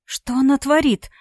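tearful disbelief climbing toward a cry; bursting into tears. A narrator's reading. Yulia watching her sister on video, breaking into tears. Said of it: "расплакалась Юля".

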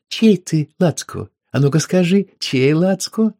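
woman teasing her lover, high playful coaxing. Acted. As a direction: coax him like a pet.

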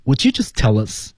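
"Would you" joined as would-ju, "tell us" as tel-lus; linked speech. Shown as a demonstration. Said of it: "注意连读".

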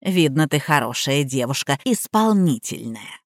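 put-on lightly sung sweet old lady; sweet sing-song. A narrator's reading. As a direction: purr approval at the maid. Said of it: "сладко пропела старуха".

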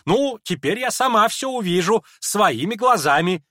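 high, loud scornful rant; a furious lady berating the naive prince; contemptuous scolding. Acted. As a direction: scorn the simpleton hotly.

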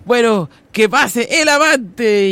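slow, drawn-out host announcement; mock talk-show host. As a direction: call the lover in like a TV host. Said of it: "Laura presents the lover". (anunciando lento como presentadora de Laura)

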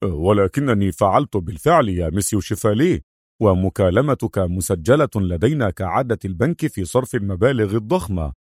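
understated baffled reply; mildly bewildered official; growing astonishment. Acted. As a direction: explain with puzzled surprise. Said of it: "في دهشة متزايدة".

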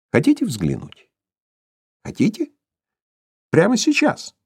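sinister teasing, leaping high; villain's sly menacing offer; mocking taunt. A narrator's reading. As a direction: tease her cruelly.

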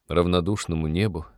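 ordinary delivery, nothing marked

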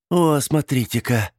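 light delight at the window; pleased. A narrator's reading. Aunt spotting her niece, pleased. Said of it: "обрадованно сказала тётя Тильди".

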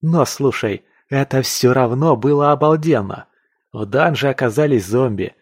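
lightly voiced enthusiastic storyteller; excited young hunter.

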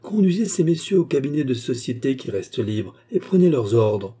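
stately, self-important instruction; majestic tone. Acted. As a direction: give the order like tavern royalty. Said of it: "d'un ton majestueux".

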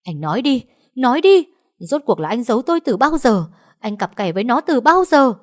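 high, loud furious shriek; screaming. A narrator's reading. Wife screams at her unfaithful husband, high and loud. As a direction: scream the accusation at him. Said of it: "gào thét".

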